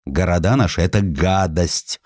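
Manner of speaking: ordinary delivery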